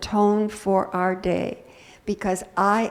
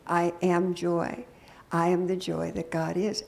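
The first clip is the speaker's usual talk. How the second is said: calm affirmation; 3 semitones lower than usual. Shown as a demonstration. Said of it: "with that tone".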